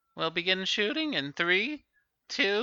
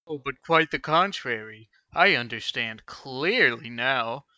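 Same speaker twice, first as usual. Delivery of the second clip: cold menace; 5 semitones lower than usual. Acted. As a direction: condemn him coldly. Cold threatening verdict.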